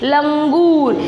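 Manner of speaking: लंगूर with a clear ng before the g; correct reading, nasal sounded. Shown as a demonstration. Teacher repeats for pupils, लंगूर with its nasal. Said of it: "आपको क्या पढ़ना है?".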